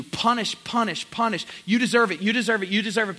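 loud, driving mock accusation; wrath crying out. Voicing God's wrath against the congregation, loud chant. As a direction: chant it like a judge's sentence. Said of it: "God's wrath is crying out".

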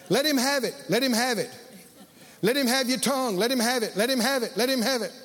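imitating repetitive, rhythmic egging-on; insistent urging. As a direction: repeat it in an even, pressing rhythm. Retold helpers chanting at him.

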